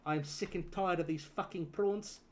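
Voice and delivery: put-on South African accent. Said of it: "doing a South African accent".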